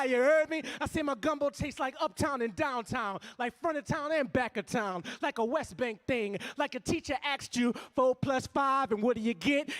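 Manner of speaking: rhythmic stage poetry with rising heat; spoken word poem. Acted. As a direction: perform it like a slam poem for a crowd.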